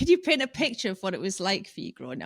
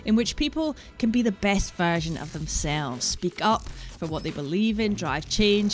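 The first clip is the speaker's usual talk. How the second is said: podcast intro. Acted.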